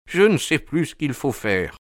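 high, anxious character voice; timid man at his wits' end; helpless fear. A narrator's reading. Terrified Thaddeus at a loss.

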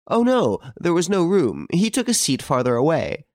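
put-on very high old lady's voice. A narrator's reading. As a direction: explain as the old lady, pitched right up. Old lady answers on telephone.

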